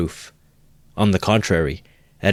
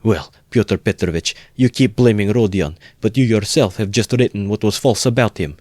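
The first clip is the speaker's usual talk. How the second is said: gaining courage; 4 semitones higher, 3 dB louder than usual. Acted. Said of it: "gaining courage".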